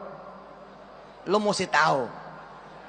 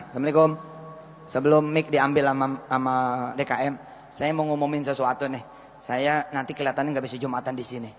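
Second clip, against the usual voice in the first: mock pompous announcer; 8 semitones lower, faster than usual.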